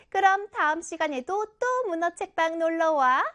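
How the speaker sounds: a hint of a chatty storybook auntie; lightly voiced octopus aunt. Octopus aunt recapping the lesson for young friends, lightly put-on character voice.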